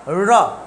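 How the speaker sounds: र with tongue curled back to the roof; heavy curled-tongue र; retroflex r. Shown as a demonstration. Teacher asking what we call it, retroflex र. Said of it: "इसी को बोलेंगे क्या हम".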